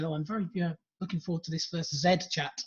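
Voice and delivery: exaggerated posh English accent. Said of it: "in a very English accent".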